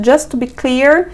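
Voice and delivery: "Just to be clear" slowly, rising on "clear"; measured setup, "clear" left hanging upward; careful intonation. Shown as a demonstration. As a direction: model "Just to be clear" with "clear" lifted. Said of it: "com a entonação".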